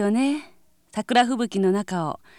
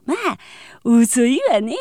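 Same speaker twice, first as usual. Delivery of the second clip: mock shock; 2 semitones higher, 7 dB louder, slower than usual. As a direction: react like scandalized gossip. Shocked gossip reply.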